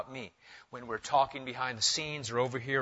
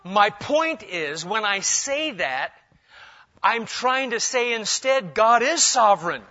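emphatic preaching; 7 semitones higher, 8 dB louder than usual. Real, not acted. Preaching climax.

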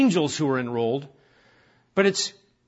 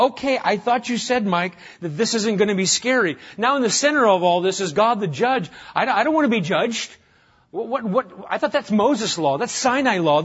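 higher, louder, nervous objection from the pews; mock frightened listener; 5 semitones higher, 4 dB louder than usual. Pastor voicing a nervous listener to Mike, mock alarm. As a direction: play the worried churchgoer protesting the judge.

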